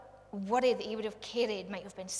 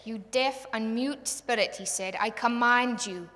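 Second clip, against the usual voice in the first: stern rebuke; 5 dB louder than usual. Acted. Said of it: "he rebuked the impure spirit".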